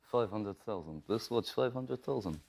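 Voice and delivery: slow imitated Russian accent; weighty, unhurried Russian-accented impression; in-character Russian accent. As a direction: announce it slowly in a mock Russian accent. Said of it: "he stays in character".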